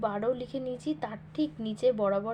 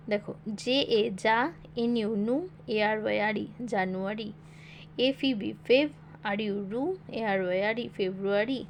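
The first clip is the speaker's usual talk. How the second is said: letters spelled in chunks, each chunk then sounded out, like "জে এ যা"; spelling syllable by syllable. Shown as a demonstration. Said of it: "কীভাবে পড়বে একটু শিখিয়ে দিই".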